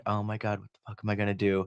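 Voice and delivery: quiet, sinking dismay; retold dismay. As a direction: say it under the breath, at a loss. Retold dismay over grieving dog.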